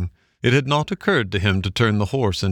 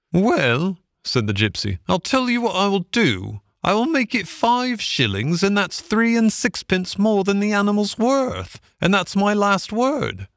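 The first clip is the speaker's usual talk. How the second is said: much higher gypsy voice, final; horse-dealing gypsy closing the deal, high-pitched; gypsy haggling; 11 semitones higher than usual. A narrator's reading. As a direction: drive a hard bargain as the gypsy.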